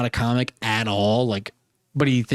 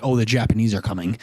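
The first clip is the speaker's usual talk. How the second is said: lower, matter-of-fact American delivery; classic American accent; 5 semitones lower than usual. Shown as a demonstration. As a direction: say it in standard American. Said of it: "than classic American".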